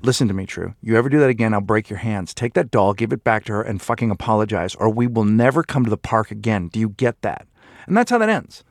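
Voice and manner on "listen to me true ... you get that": put-on low, controlled warning to a child; stern parent. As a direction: lay down the law, low and firm. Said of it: "Here's how I would handle that".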